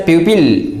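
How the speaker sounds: PUPIL with a clear i, "PYOO-pil"; mispronunciation. Shown as a demonstration. Teacher shows Indian speakers' error, pupil mispronounced "PYOO-pil". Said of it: "make its wrong pronunciation as".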